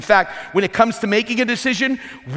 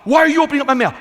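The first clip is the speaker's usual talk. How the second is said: higher, louder indignant question; mock outrage; 7 semitones higher, 4 dB louder, much faster than usual. Husband catching wife at his mail, mock outrage. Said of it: "if they go".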